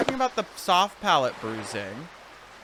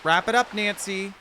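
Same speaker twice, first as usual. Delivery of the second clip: bossy shout; 6 semitones higher, 3 dB louder than usual. Pretend. Bossing the player around.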